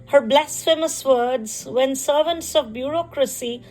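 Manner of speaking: measured poetry reading with pauses between phrases; poem recitation. Acted. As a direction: recite it line by line, lingering on phrase endings. Recites her own poem.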